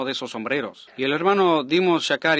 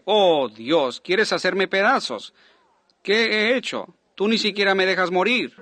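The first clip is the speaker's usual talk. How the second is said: anguished plea; 5 semitones higher than usual. Retold or imitated. Preacher to God after the gun fails, anguished cry.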